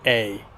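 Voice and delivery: "A" gliding from "eh" to "ee"; "A" the American way, starting on "eh"; American A vowel. Shown as a demonstration. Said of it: "this diphthong moves from an E to E".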